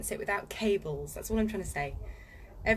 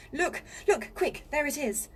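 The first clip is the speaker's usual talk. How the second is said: high, louder eager call; Susan urging; 6 semitones higher, 3 dB louder than usual. Acted. Susan spotting the beaver, high eager call. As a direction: point it out quickly. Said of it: "said Susan".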